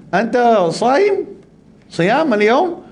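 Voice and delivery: slow, high mock Arab question; drawn-out imitated Arab query; imitating an Arab asking if he fasts. Arab asks about fasting.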